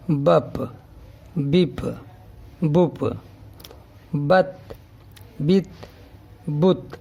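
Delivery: بپ and بت each read clearly three times; syllable drill. Shown as a demonstration. Teacher drilling syllables for pupils. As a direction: drill بپ then بت slowly. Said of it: "یہ دیکھیں".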